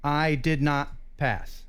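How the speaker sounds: slow, low fake disappointment; mock gloomy. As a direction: pretend you failed, drag it out. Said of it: "is what I would say if I didn't get a ninety-eight percent".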